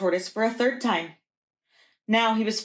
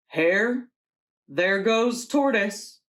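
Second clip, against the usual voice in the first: Bear calling out; slower than usual. Acted. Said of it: "Bear noticed something moving".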